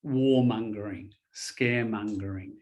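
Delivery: teacher sounding out Warmongering and scaremongering for the learner; clear pronunciation demo. Shown as a demonstration. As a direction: model "Warmongering, scaremongering" for the student, MON rhyming with "sun". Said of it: "that word mongering means".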